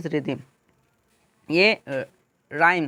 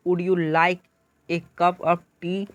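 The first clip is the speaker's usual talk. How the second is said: slow question with stress on "tea" at the end; rising intonation; much slower than usual. Shown as a demonstration. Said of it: "टी पे, तो ये आपका rising intonation".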